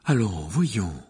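indignant. A narrator's reading. Professor rebuking giggling pupils, indignant. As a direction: scold with offended dignity. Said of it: "s'indigna le professeur Trelawney".

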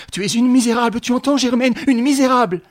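screaming insult; furious insult. A narrator's reading. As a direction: hurl it at her rival. Escalating quarrel.

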